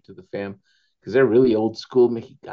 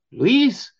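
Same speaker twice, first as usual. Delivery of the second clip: much higher, louder, slow correction; sister-in-law correcting; 12 semitones higher, 6 dB louder, slower than usual. Retold or imitated. Sister-in-law telling Luis it's the mashed potatoes, high and slow. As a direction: set him straight like an exasperated hostess. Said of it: "she said".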